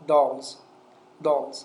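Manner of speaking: "dolls" with the final s voiced as z. Shown as a demonstration. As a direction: punch out "dolls", falling, ending in z.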